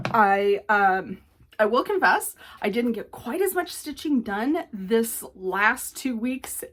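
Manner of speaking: holding back hiccups; suppressing hiccups. Real, not acted. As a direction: talk through hiccups. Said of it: "excuse me, hiccups".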